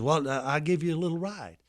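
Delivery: lightly voiced Southern security man; a hint of the folksy gatekeeper's voice; Uncle Vester. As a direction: imitate the gatekeeper making a casual offer. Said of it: "I can hear him talking just like this".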